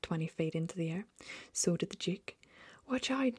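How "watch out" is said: high, sudden warning cry; alarmed shout. A narrator's reading. Duke dodging the pistol shot, high alarmed shout. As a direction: jump back as you warn them. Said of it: "the Duke shouted".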